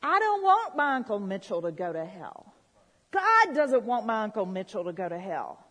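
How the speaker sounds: loud opening, falling away through the sentence; emphatic preacher's declaration; impassioned plea. Retold or imitated. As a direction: plead publicly for a loved one. Re-enacts public plea for uncle.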